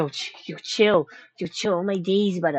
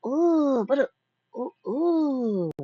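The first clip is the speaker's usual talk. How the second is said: sneezing; 4 semitones higher, slower than usual. Real, not acted. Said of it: "I have to sneeze again".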